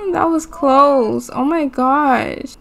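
slow, high laughing-crying relief; relieved laugh. Real, not acted. Player relieved Leo survived, laughing slowly with relief. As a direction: laugh it out, half sobbing with relief.

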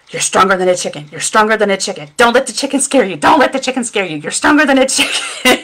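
rising nervous self-encouragement breaking into a laugh; nervous pep talk. Retold or imitated. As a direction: psych yourself up against the chickens, rising. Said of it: "I'm going".

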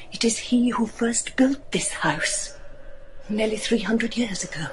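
hushed warning. Acted. Sybil warning about the ancestor.

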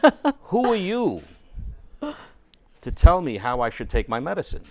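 high, loud mock-indignant retort, laughing through it; offended director snapping back at pharmacist, mock indignant and loud. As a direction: play the offended maestro, half laughing. Retold director scolding him.

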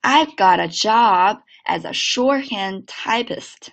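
slow linked model read; slow teacher's model. Shown as a demonstration. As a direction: read it slowly, linking got a. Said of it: "整个句子连起来".

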